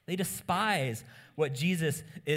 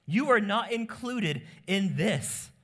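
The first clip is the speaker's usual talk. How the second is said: stern Jesus; 6 semitones higher, 4 dB louder than usual. Retold or imitated. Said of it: "So Jesus says".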